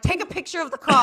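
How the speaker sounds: loud, high comic dad shout; hammed-up parental order; father yelling orders. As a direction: holler it like an exasperated father on the phone. Father shouting over crash, retold.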